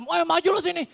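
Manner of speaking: lightly voiced street taunt; mock taunt. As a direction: jeer like a brawling kid.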